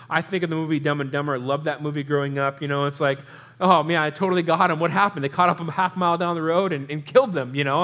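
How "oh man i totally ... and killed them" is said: brothers panicking on the run, louder and quicker; mock panic. Pastor voicing the Dumb and Dumber guys realizing they're caught, hammed-up louder panic. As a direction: blurt it out like a goofy movie crook in a panic. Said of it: "this is what I'm thinking is happening".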